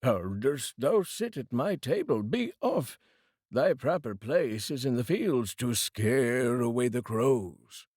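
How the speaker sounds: a lightly voiced haughty rich man, sending him off; mild contempt, telling the poor brother to go scare crows; scornful rich brother. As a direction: look down on the beggar at your table.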